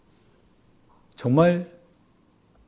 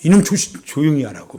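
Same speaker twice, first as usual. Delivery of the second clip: retold angry parent; 6 dB louder than usual. Parent silencing a complaining child, mock angry outburst. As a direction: imitate a parent losing their temper. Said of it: "화내죠".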